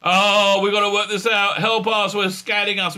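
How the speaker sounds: whiny put-on panic; mock freaking out. Crew member keeps freaking out, mock panicky pleading. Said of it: "keeps freaking out".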